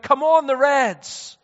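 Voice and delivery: high, loud, drawn-out fan cry; slow, loud mock terrace cheer; imitated football shout. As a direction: roar on the team like a supporter. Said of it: "they're shouting out".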